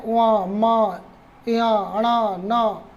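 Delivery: उआ मा या अणा ना sounded through the nose; nasal sounds demo. Shown as a demonstration. Teacher sounding out nasal letters for the class to try. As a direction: hum out the nasals मा and ना. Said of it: "तो आप बोल के भी देख लें".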